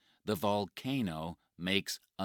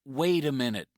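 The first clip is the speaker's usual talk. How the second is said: urgent call; 9 semitones higher, 11 dB louder, faster than usual. Acted. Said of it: "says Mike".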